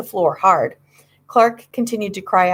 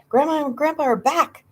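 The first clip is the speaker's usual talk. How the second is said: excited shout; 8 semitones higher than usual. A narrator's reading. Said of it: "Clark shouted".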